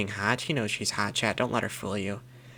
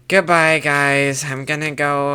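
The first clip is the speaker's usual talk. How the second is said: put-on fed up girlfriend voice; 5 dB louder, slower than usual. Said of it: "a fed up girlfriend voice".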